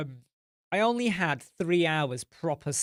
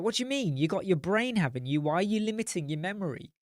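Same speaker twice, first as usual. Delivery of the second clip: wife confused; 2 semitones higher, faster than usual. Retold or imitated. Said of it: "she'll be like".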